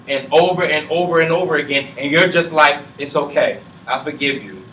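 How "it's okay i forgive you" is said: resigned forgiving. Retold or imitated. Voicing self forgiving again.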